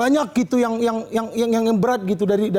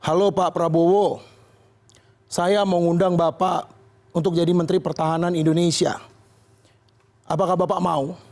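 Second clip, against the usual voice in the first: formal Jokowi; 3 semitones lower than usual. Pretend. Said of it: "Pak Jokowi nelpon ... ngomong".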